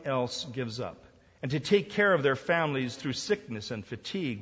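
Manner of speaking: preacher declaiming each gift in swelling phrases; emphatic sermon reading. Acted. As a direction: read out God's answer with measured emphasis. Reads God's answer from book.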